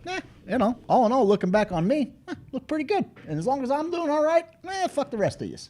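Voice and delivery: hammed-up Kiwi bloke boasting; mock Kiwi accent. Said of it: "step in as a Kiwi".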